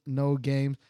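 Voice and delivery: usual speaking voice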